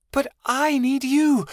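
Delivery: put-on girl yelling at departing boyfriend, desperate. A narrator's reading. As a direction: cry out so he won't leave. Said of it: "she yelled".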